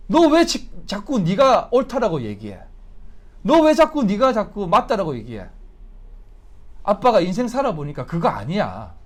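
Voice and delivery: exasperated dad laying down the law; scolding father. Acted. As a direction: scold a stubborn child. Acts out father scolding stubborn child.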